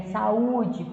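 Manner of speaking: saúde with the Ú held; saúde sounded out, stressed on Ú; stress on penultimate. Shown as a demonstration. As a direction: lean on the Ú in saúde. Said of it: "a penúltima".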